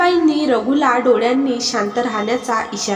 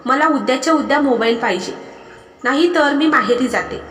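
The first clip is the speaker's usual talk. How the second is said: half-raised, demanding wife's voice; almost shouting; 2 semitones higher than usual. Acted. Wife demanding a phone from husband, almost shouting. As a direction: push it just short of a shout. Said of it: "ती जवळजवळ ओरडण्याच्या स्वरातच बोलली".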